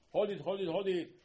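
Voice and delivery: high, punched triple cry; loud proclamation. Acted. Preacher reciting the prayer to Hashem, loudly proclaimed. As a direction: call each repeat out forcefully.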